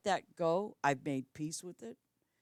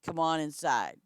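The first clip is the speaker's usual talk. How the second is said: nicely; 3 dB louder than usual. Retold or imitated. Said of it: "very nicely".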